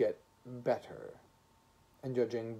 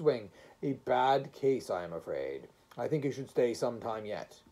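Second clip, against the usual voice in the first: severe voice; 2 semitones higher, 3 dB louder than usual. Acted. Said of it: "a severe voice".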